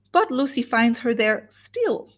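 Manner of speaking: "still" drawn out slowly at the end; stress on STILL. Shown as a demonstration. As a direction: land pointedly on the word "still". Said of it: "with a strong emphasis on the word still".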